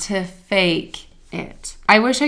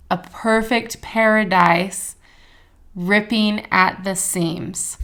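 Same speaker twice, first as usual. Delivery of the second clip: slow, deliberate lyric recitation; reading lyrics aloud; slower than usual. Acted. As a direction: savour each line, spoken slowly like a poem. Reads lyrics aloud slowly.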